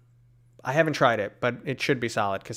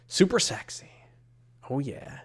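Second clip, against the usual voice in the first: playful whisper; 2 semitones higher than usual. Pretend. Streamer teasing chat about a costume, playful whisper. Reading a chat suggestion aloud.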